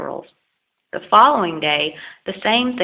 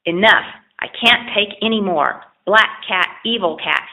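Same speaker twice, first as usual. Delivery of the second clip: raging. Acted. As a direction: burst out in rage at the cat. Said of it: "he raged".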